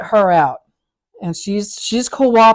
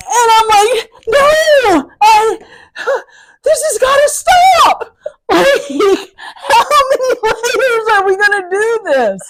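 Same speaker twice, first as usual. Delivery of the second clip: high, loud talk through laughter; cracking up while telling it; laughing hard at the absurd chaos; laughing disbelief; 13 semitones higher, 5 dB louder than usual. Real, not acted.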